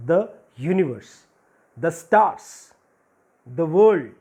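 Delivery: each "the" said "thuh"; short schwa in "the" before universe, stars, world. Shown as a demonstration. Teacher lists consonant examples, each "the" said "thuh". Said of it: "that's why it is".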